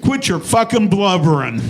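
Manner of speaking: gruff crowd voice. Retold or imitated. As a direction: bark it like the whole congregation at once. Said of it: "And in one voice".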